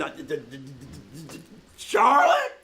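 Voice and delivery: startled into calling her name; startled stammer. Acted. Stammers then calls out startled.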